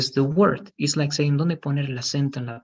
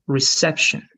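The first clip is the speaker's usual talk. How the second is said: "reception" stressed on CEP; careful demo of "reception", weight on CEP; second-syllable stress. Shown as a demonstration. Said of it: "The second syllable".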